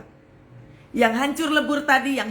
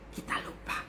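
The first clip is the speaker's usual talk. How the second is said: hushed refrain; 13 dB quieter than usual. Real, not acted. Preacher drives a point home to the congregation, whispering. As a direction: whisper it, barely any voice.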